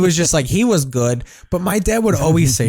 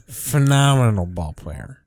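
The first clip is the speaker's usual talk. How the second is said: put-on slower, lower, slurred drunk dad; 3 semitones lower than usual. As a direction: drag it out like a tipsy father. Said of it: "I'll do this in my dad's drunk tone".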